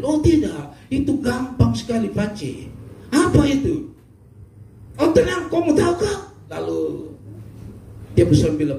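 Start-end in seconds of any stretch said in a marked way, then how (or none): 0.0-6.2 high, lilting Papuan wife voice. Acted. Wife Mina teases her husband in a high voice. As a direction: answer sweetly and high like a teasing wife. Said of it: "wife Mina answers husband".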